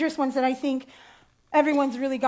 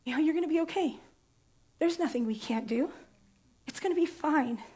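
soft whisper; 2 semitones higher, 7 dB quieter than usual. Retold or imitated. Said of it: "kept whispering in my ear".

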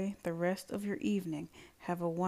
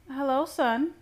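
leering mother's greeting, higher and louder; 8 semitones higher, 7 dB louder than usual. A narrator's reading. Mother greets her son outside his house, leering. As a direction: greet him high and loud with a leer. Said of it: "My mother's voice leered".

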